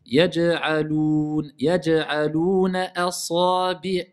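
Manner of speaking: slow, drawn-out tajwid chant; Quran recitation. Shown as a demonstration. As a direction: recite it slowly with long prolongations. Teacher recites Quran verse. (récitation lente du Coran)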